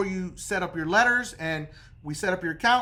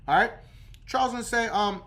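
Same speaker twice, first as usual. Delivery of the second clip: ordinary talk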